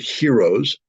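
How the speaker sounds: "heroes" drawn out slowly and leaned on; slow deliberate stress on "heroes" to honour the soldiers. Real, not acted. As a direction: hit the word "heroes" with weight. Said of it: "I will emphasize the word heroes".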